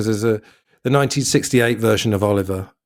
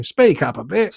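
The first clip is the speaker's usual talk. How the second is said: mock calling out; 6 semitones higher, slower than usual. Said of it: "he has to shout".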